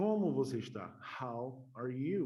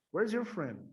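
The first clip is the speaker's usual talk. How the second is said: higher, louder, words run together; natural connected pace; 6 semitones higher, 5 dB louder than usual. Shown as a demonstration. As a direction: say it in one quick joined-up phrase. Same sentence again, joined up.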